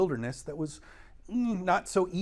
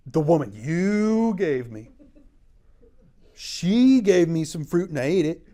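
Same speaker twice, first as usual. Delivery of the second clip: defensive Adam; 2 semitones higher, 6 dB louder than usual. Acted. Adam answering God, loudly shifting the blame. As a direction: push the blame onto her. Adam voiced blaming Eve.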